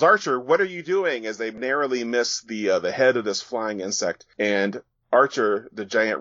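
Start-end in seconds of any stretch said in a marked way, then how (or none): 0.0-1.3 alarmed shout. Retold or imitated. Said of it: "someone in the helicopter says".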